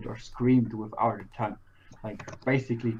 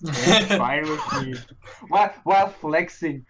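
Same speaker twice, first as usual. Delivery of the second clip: laughing and louder; 2 semitones higher, 5 dB louder than usual. Real, not acted. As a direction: get it out through giggles. Laughing at the mute giant.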